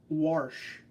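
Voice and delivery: "warsh" with an added r; regional "warsh". Shown as a demonstration. Recalling what was heard, "warsh" with intrusive r. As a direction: say "warsh" for wash, r before the sh. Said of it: "I used to hear".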